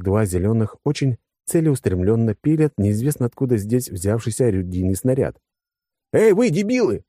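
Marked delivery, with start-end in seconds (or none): 6.1-7.0 high-pitched alarmed yell. A narrator's reading. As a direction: yell at fools to stop them, voice shooting up. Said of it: "заорал я". (высокий возмущённый крик)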